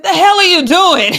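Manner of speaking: lightly voiced angry teammate; retelling Rondo yelling at Kawhi, mock angry. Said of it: "Rondo said".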